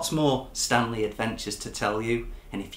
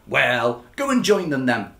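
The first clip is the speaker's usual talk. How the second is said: a touch of a louder grumpy lobster; grumpily; 5 dB louder than usual. Acted. Lobster sending Stanley off, mildly grumpy. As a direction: wave him off, mildly grumpy. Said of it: "pointing grumpily".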